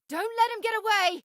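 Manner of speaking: high, fast urgent yell; combat shout. Acted. Companion urging the captain to stop the fleeing thief, shouted. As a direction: shout the order mid-fight. Combat call to chase target.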